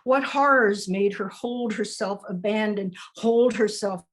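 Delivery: measured spoken-word reading; poem recital. Acted. Poet reading her poem about a woman on the corner, spoken-word delivery. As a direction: read it like a poem, line by line.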